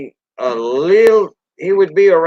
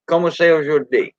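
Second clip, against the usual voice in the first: Cajun French; 3 semitones higher than usual. Shown as a demonstration. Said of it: "shorten stuff up".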